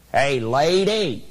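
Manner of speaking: slow, drawn-out parrot call; a parrot catcalling the lady on her way to work, slow and drawn out. Acted. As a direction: stretch it out like a cheeky parrot hailing her. Parrot calls to passing lady.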